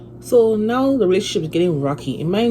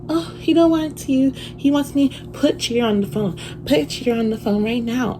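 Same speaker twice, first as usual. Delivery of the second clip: high-pitched imitation of the other woman; mimicked demanding rival; 9 semitones higher than usual. Acts out rival demanding the man.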